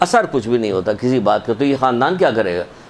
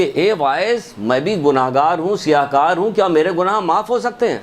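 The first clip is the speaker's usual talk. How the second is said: imitated cry; 4 semitones higher than usual. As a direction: raise the pitch as if crying out to the preacher. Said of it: "وہ اتنی زور سے چیخی".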